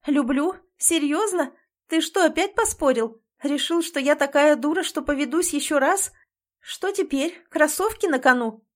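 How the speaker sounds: high, bitter and loud; furious disbelief. A narrator's reading. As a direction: throw his words back at him. Heroine confronts him, furious.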